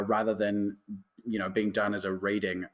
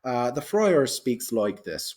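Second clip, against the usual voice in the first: light Irish accent; slower than usual. Shown as a demonstration. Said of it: "a bit Irish".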